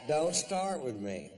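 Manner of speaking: sarcastic polite threat; snappy mock-polite; mock polite warning. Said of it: "very politely".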